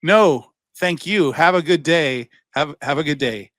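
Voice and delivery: a hint of a chirpy AI caller; polite phone voice. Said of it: "they just keep going".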